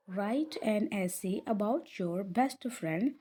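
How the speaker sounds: slow, drawn-out English sentence; slow model reading. Shown as a demonstration. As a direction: read it slowly, word by word. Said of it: "डब्ल्यू यहाँ पे silent है". (धीमे-धीमे पढ़ते हुए)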